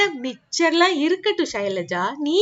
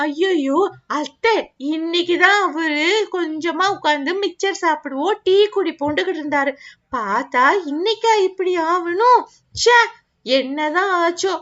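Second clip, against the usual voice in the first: sad lament; 4 semitones lower than usual. Acted. Wife lamenting the damaged vehicle.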